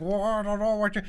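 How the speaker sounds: a hint of his friend's odd way of talking; imitating Rupert. Streamer mimicking friend Rupert to viewers, a light impression. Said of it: "that's how he talks".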